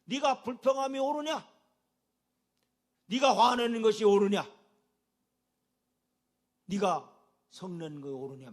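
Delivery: loud, high, rising rebuke from God; God's booming question. Acted. Preacher voicing God questioning the congregation, booming. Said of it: "우리에게도 하나님은 질문을 해요".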